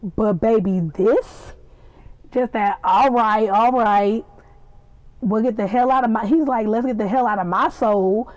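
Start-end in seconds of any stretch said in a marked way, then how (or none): 2.8-4.2 loud drawn Southern "all right"; lightly put-on country twang; country Southern accent. Quoting Louis gone country, Southern accent. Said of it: "Just country". 5.2-6.3 quick imitation of a Southern accent; lightly put-on country twang. Quoting Louis at his most country, Southern accent. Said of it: "Just country". 6.7-8.3 imitated Southern country accent; lightly put-on country twang. Quoting Louis at his most country, Southern accent. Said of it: "Just country".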